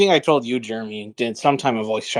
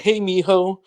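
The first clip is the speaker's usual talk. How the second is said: higher, lightly creepy greeting; creepy old priest; 5 semitones higher, slower than usual. Retold or imitated. Old priest repeating his greeting at the gym, lightly imitated creepy call. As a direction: imitate an over-familiar priest, pitched up. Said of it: "but he said it like".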